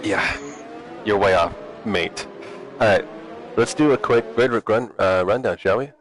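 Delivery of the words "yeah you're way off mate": put-on British accent. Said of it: "All British would be like".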